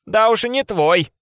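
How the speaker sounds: high, loud, slow, rude; rude snap. A narrator's reading. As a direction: throw it at her rudely. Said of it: "грубо бросила Варвара".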